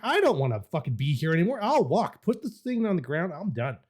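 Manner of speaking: high-pitched mock-panicked complaining; panicked passenger protest. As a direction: protest like a passenger who wants out. Retold protest from the back seat.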